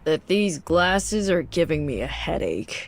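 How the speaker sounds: slow, deadpan nerd reading; nerdy voice. Acted. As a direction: read it like a dull nerd. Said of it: "my Redditor voice".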